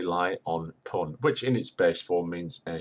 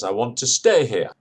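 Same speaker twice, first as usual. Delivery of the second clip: raised voice calling upward; man calling up; 5 semitones higher, 7 dB louder than usual. Retold or imitated. Man at the door calling up to the landlady. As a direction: call up to the window, louder. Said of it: "The man says".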